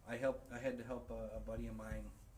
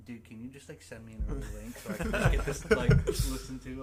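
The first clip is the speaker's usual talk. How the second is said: eager pleading; 3 semitones higher, 13 dB louder than usual. Retold or imitated. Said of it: "I almost messaged you".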